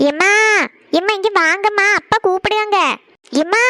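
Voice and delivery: insistent call to mother. Acted. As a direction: call out for mum from another room. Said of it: "என்ன அலறு அலறிட்டு இருக்கா". (அம்மாவை அலறிக் கூப்பிடுதல்)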